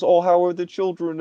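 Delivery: high, chummy small talk; sweetly pry about her kids; admiral character voice. Acted. Admiral chatting with a guest, high friendly voice. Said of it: "and he goes".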